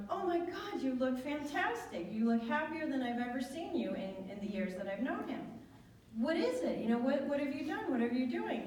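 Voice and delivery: high, bright-eyed amazement; excited gush. Retold or imitated. Greeting an old friend in Ojai, high excited gush. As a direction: gush over how great he looks.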